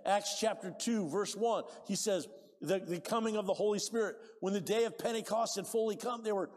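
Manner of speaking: loud preaching of scripture; full-force preaching. Acted. Pastor preaching Acts to the congregation at full force. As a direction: proclaim it to the whole church.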